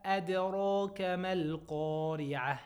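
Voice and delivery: chanted tajweed recitation, held and measured; Quran recitation. Shown as a demonstration. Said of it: "So we say".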